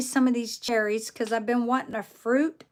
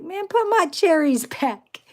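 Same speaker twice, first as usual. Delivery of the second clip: laughing mock protest; 6 semitones higher, 4 dB louder than usual.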